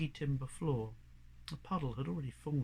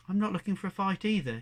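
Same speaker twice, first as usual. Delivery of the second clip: put-on young cat; 5 semitones higher, 5 dB louder, faster than usual. Young cat answers the tough stray.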